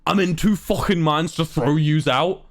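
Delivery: lightly imitated Scouse threat; Scouse deskman. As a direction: threaten eviction with a touch of Scouse. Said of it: "the man looks at me and goes".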